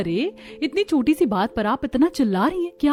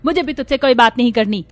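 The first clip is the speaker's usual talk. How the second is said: louder, curt and dismissive; angry dismissal; 5 dB louder than usual. Acted. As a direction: send the daughter-in-law off angrily. Mother-in-law ends quarrel. (गुस्से में झिड़कना)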